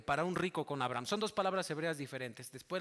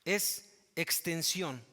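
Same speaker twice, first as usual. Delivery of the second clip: slow definition; much slower than usual. Shown as a demonstration. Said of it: "en el griego".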